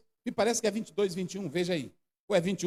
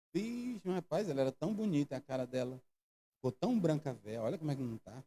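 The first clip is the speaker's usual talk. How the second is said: much lower, much softer murmur; gossiping mourner; 11 semitones lower, 11 dB quieter than usual. Acted. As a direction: gossip quietly over the casket.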